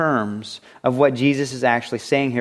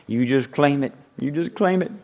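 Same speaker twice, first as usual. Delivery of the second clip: put-on country accent. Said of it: "say it in a country accent".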